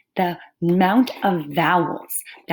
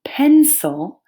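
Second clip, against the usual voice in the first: PENCIL louder, split into two syllables; two separate parts; 7 semitones higher, 6 dB louder than usual. Shown as a demonstration. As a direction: stress the first part of PENCIL. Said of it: "I say it in two separate parts".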